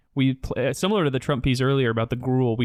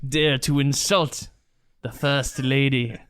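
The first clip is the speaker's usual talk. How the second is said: mock swashbuckler; slower than usual. Swashbuckling pirate play.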